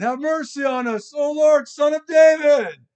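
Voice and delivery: loud, high shout building in force; full-voiced, high cry for mercy; crying out harder. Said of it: "they cried out all the more".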